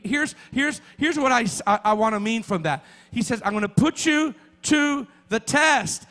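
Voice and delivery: building sermon fervour; emphatic preaching. Real, not acted. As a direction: drive the key words home, drawing them out. Preaches with rising force.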